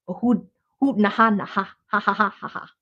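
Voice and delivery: fast hooting mock laughter; silly ha ha run; mock laughing. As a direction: laugh it off as a joke. Mocking a gag gift.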